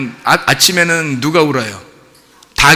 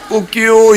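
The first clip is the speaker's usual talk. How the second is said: rooster crow; 4 semitones higher, 3 dB louder, slower than usual. Shown as a demonstration. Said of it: "여러분이 닭 울음소리 내봐요".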